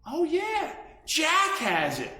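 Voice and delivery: lightly voiced squirrel, high at the start; drawn-out squirrel reply. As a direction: answer as a perky little squirrel. Squirrel's answer translated.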